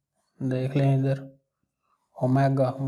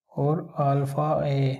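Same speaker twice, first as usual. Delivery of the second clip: slow spelling; slower than usual. Shown as a demonstration. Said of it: "English में भी इसे पढ़ सकते हैं".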